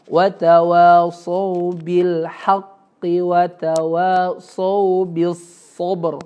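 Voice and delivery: watawasau bil haqqi watawasau bis sobr said very slowly, with no L in bis; slow careful tajwid model; measured recitation; correct recitation. Shown as a demonstration. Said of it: "Sober ya".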